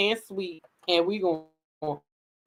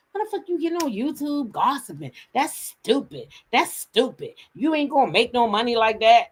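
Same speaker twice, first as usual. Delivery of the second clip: tag; 4 semitones higher than usual. Retold or imitated. Mimics husband's scornful remarks.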